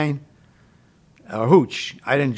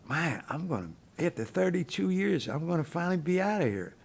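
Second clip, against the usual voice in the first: holding back tears; 9 dB quieter than usual. Retold or imitated. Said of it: "And I started crying".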